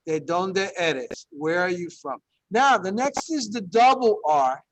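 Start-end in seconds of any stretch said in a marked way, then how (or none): 0.1-1.3 ¿De dónde eres? said very slowly, each syllable clear; slow demo. Shown as a demonstration. Teacher modelling the Spanish question slowly for the class. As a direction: spell it out slowly for learners. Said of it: "Like, for example".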